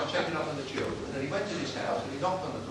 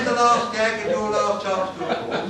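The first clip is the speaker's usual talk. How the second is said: laughing announcement; 5 semitones higher, 8 dB louder, slower than usual. Real, not acted. Announces last gag.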